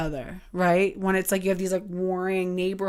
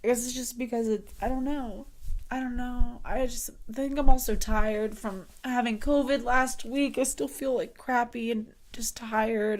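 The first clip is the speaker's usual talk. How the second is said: blubbering; 4 semitones higher, 3 dB quieter than usual. Real, not acted. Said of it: "I'm sorry I'm such a mess right now".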